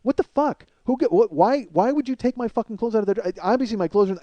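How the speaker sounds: acting out losing his mind; apoplectic swearing. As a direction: stumble over your words in indignation. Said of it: "apoplectic fucking swearing".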